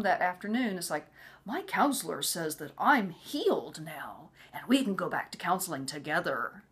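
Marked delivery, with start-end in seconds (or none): 1.4-6.6 creepy announcement. Retold or imitated. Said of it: "his eyes would be like that".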